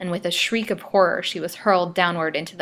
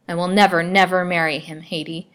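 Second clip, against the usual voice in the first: sad but dauntless; 6 dB louder than usual. Acted. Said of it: "said the young girl sadly, yet dauntlessly".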